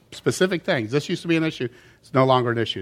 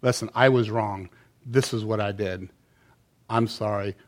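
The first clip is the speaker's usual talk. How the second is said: quiet, humble admission; a soft-spoken, heartfelt sorry; sincere confession; 6 semitones lower, 6 dB quieter than usual. Shown as a demonstration. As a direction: own it softly and honestly. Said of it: "you have to then agree".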